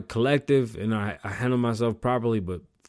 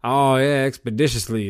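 mock show-off; 6 dB louder than usual. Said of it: "they use, like, all the wrong big words".

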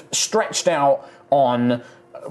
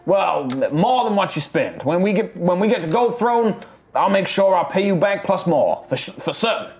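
put-on Texan accent; 5 semitones higher than usual.

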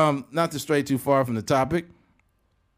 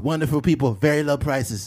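mock presidential bullet points; Donald Trump. President praising China's prices, Trump impression. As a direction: sell it in short boasts. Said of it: "Donald Trump s-, talks in, like, bullet points".

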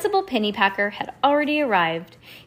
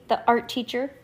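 ordinary delivery, nothing marked

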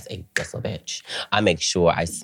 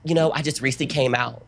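high, timid fake innocence; hammed-up reluctance; acted nervousness; 8 semitones higher, faster than usual. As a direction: plead like a nervous first-timer. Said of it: "Me being an actor".

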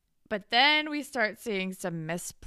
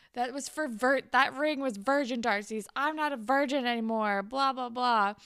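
raised, louder retold rant; mock outburst; 5 semitones higher, 5 dB louder than usual. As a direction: act out a spiraling girl's defiant tirade. Spiraling girl's outburst retold.

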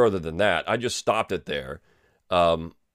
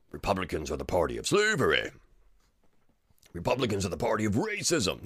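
mock propaganda slogan; 2 semitones lower, 6 dB quieter than usual. Mocking opponents' propaganda slogans.

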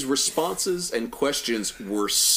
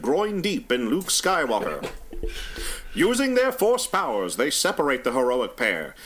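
newsreel narrator voice; dramatic announcer reading the crawl; old radio announcer; 3 semitones higher than usual. Acted. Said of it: "a Walter Winchell style newsreel narrator voice".

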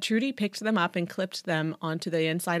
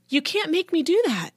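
put-on high, loud teenage protest; defiant protest; 10 semitones higher, 7 dB louder than usual. A narrator's reading. Daughter fights dad's punishment, defiant. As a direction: push back, pitch way up.

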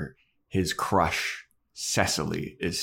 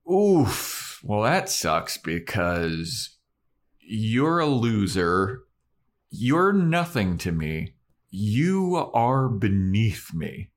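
slow, drawn-out mock put-down, higher; cold dismissal; 3 semitones higher, slower than usual. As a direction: look down on him slowly, with a high voice. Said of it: "And Cecily is like".

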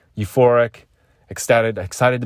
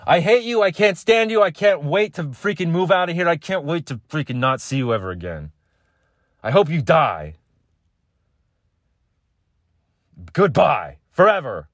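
much higher, hammed-up angry screech; furious morning rant; 8 semitones higher than usual. Grumpy just-woke-up self screaming at a partner, high and hammed-up. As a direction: shriek it at them like you're done forever. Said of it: "That's me thirty minutes after waking up".

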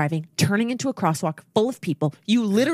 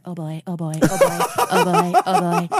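nervous bystander; 3 semitones lower, 4 dB louder than usual. Retold or imitated. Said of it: "this woman behind me is like".

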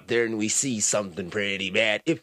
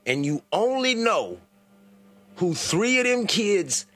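slow, high disbelief; incredulous; 5 semitones higher, slower than usual. Real, not acted. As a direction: drag it out in shock. Incredulous repeat of caller.

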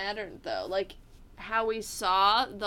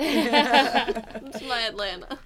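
put-on Southern belle accent; 2 semitones higher, 5 dB louder, much slower than usual. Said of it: "The Atlantas and the nice".

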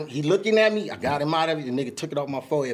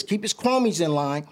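each word laid out slowly; slow and deliberate; slower than usual. Retold or imitated. Telling Game's people to stay in line, slow and deliberate. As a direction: spell out the terms calmly and slowly. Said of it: "I said it just like this".

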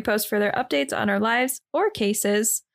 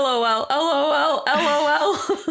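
deadpan; 3 semitones higher, slower than usual. Pretend. Mock robotic LOL repeat.

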